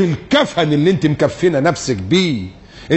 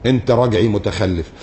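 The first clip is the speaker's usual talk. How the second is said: mock critic sneer; 6 semitones lower than usual. Same mock repeated.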